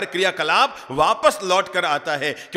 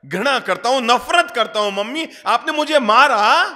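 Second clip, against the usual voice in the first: put-on angry child; 7 semitones higher, 5 dB louder than usual. A narrator's reading. Child yelling at mother.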